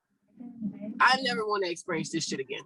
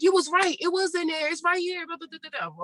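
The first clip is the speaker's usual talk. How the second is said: doctor voice; 8 semitones higher than usual. Retold or imitated. Doctor reporting after surgery.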